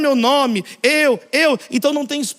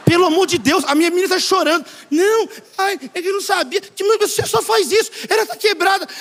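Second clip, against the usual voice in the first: raised, higher, agitated pleading; retold angry outburst; 6 semitones higher than usual. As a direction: imitate a worked-up father at reception. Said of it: "bravo com todo mundo".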